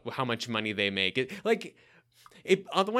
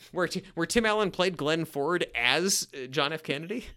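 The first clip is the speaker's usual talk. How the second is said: deadpan teasing mixup, ending on a rise; mock confused question; 3 semitones higher than usual. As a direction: drag it out like you're baffled. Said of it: "I thought I said Glenn Ford".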